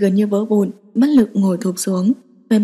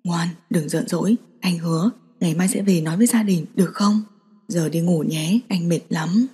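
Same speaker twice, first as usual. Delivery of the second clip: hushed coaxing, softer and lower; 4 semitones lower, 5 dB quieter than usual. A narrator's reading. He hushes his upset girlfriend, coaxing her to bed, soft and low. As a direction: murmur it gently to calm her down. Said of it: "mít khẽ".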